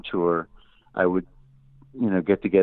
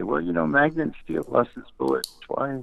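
higher-pitched retold plea; pleading a case; 4 semitones higher than usual. Artist arguing to label boss for his record, pleading. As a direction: make your case to the boss. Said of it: "plead my case and say".

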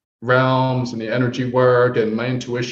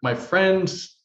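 lightly voiced young woman; 3 semitones higher than usual. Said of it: "And she goes".

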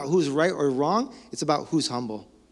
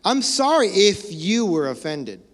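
mock conditional apology; 3 semitones higher, 4 dB louder, slower than usual. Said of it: "For example".

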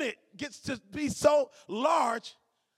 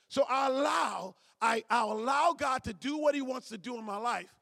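strong, raised voice on allow. Real, not acted. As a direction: proclaim it boldly to the room. Preacher declaring to congregation.

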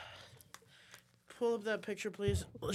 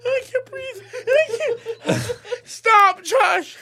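helpless laughter; 2 semitones higher, much slower than usual. Real, not acted.

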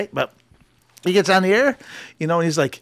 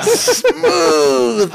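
dad's cool quip; 9 semitones higher, 4 dB louder than usual. Retold or imitated. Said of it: "He's like".

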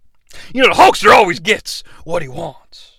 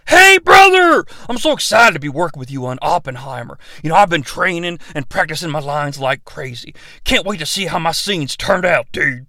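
Hulk Hogan. Acted. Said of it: "Hulk Hogan meets Christopher Nolan".

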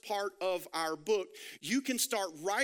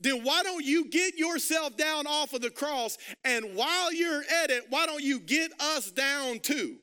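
higher, louder sneering taunt; mocking criminal; 4 semitones higher, 3 dB louder than usual. Criminal mocking Jesus from the cross, louder sneering taunt. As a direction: jeer at him from the cross. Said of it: "starts to mock Jesus".

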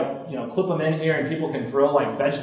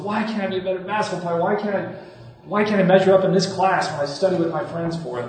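frustrated self-reproach; 5 semitones higher, faster than usual. Acted. Voicing self-blaming inner talk.

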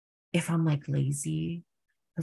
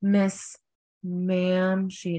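higher, drawn-out acted call; someone calling out; 4 semitones higher, much slower than usual. Bar patron hailing the performer, drawn-out call. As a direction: hail them by name, stretching each word. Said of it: "I'll hear someone go".

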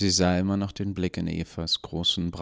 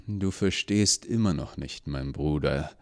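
cold villain; 2 semitones lower than usual. Acted. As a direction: lay out his dark creed calmly. Gnädige lectures his brother.

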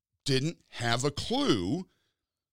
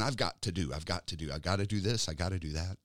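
busy fretting; 7 semitones lower, 5 dB quieter than usual. Retold or imitated. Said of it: "We get so caught up in".

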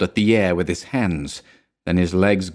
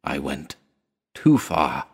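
moaning; 6 semitones lower, slower than usual. A narrator's reading. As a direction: let the words sink away. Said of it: "he moaned".

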